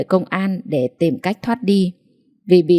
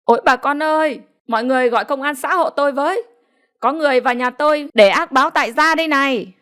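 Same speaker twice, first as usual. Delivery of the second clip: much higher, fast panicked call; crying out for help; 7 semitones higher, faster than usual. A narrator's reading. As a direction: alarm the neighbours, voice flying high. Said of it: "ông Tiêu bèn kêu ầm lên". (kêu cứu ầm ĩ, giọng cao và gấp)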